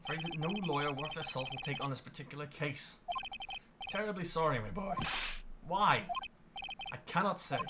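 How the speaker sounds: put-on polite, regretful old gentleman; lightly voiced uneasy elder; pompous old lawyer. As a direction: apologise while refusing to budge. Grossberg apologizes, dismisses.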